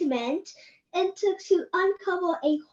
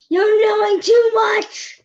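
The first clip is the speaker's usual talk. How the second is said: menacing grandma; 2 semitones higher, 6 dB louder, slower than usual. Pretend. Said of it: "his grandma's gonna come down and say".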